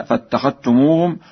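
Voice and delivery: فاتخذتموهم with doubled t, no dh; dhal merged into ta. Shown as a demonstration. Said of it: "بإدغام الذال في التاء". (إدغام الذال في التاء في فاتخذتموهم)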